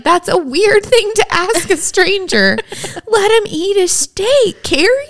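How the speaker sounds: high laughing self-scold. Retold or imitated. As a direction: scold yourself through giggles. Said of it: "And then I was like".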